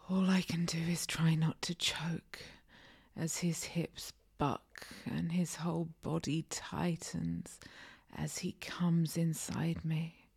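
slow breathy whispered storytelling; whispered narration. A narrator's reading. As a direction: whisper it close to the mic.

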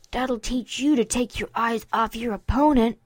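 lightly voiced smug colt; a firm, self-satisfied telling-off; smug scolding. Colt after burying his friend in snow, smug. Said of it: "Dinky mimicked him".

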